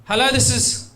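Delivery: high, sing-song phone greeting; mock operator answering; call center greeting. Russian call center agent answering.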